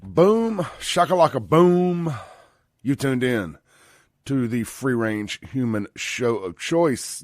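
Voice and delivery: drawn-out talk-radio host opening; radio show intro. Acted. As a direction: punch the catchphrase, then settle into a low station ID.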